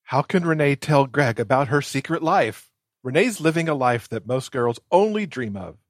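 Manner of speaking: a back-cover blurb read with a touch of drama; cover copy read. Acted. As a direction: sell the book like a teen paperback blurb. Reads the book's cover copy.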